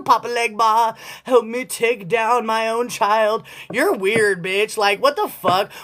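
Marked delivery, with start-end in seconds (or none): 0.0-3.4 mock invocation. Mock invoking a spirit.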